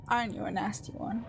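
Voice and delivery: understated hateful taunt, androgynous; a hint of a raspy mocking villain. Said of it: "I have to do a raspy, androgynous, mocking voice".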